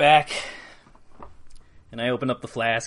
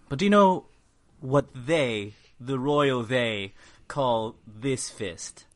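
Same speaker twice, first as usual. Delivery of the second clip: 1 slow theatrical question; much slower than usual. Acted. Slow drawn-out royal they.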